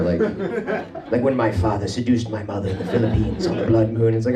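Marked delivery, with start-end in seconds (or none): 1.2-4.1 mock-gothic storytelling; lightly voiced melodramatic horror confession; hammed-up vampire tale. Wasian describing a white parent as a vampire, mock dramatic. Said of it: "talk about their white parent like they're a vampire".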